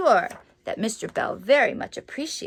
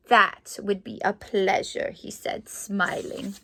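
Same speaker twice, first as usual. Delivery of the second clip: story narration. A narrator's reading. Reads picture book aloud.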